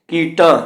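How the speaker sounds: ਕੀਟਾਂ with a nasal final aa; nasalised final vowel. Shown as a demonstration. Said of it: "ਕੀਟਾਂ ਦੇ ਕੰਨੇ ਉੱਤੇ ਬਿੰਦੀ". (ਕੀਟਾਂ ਦੇ ਕੰਨੇ ਦੀ ਨਾਸਕੀ ਆਵਾਜ਼)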